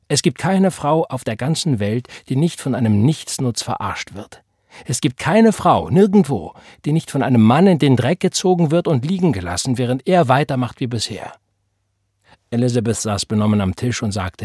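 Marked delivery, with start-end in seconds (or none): 0.1-11.3 raised, higher-pitched indignant outburst; heated, emphatic complaint; indignant tirade. Acted. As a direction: rail against them with rising force. Florence rails against worthless men.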